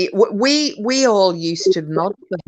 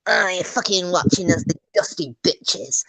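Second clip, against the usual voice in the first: hammed-up Philly woman, dragging out the insult; mock Philly accent. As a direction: put on her sweary Philly voice. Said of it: "She's like".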